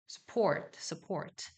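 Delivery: support의 su를 살짝 흘리듯 약하게; 써포트 아닌 스포트처럼 가볍게; unstressed first syllable. Shown as a demonstration. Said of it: "살짝 흘리듯이 하면 돼요". (첫 음절 힘 빼는 발음)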